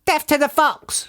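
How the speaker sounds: high, squeezed character shout; hammed-up battle cry in a high voice; shouted war cry. A narrator's reading. Bunce charges at the fox's hill, shouting. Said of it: "shouted Bunce".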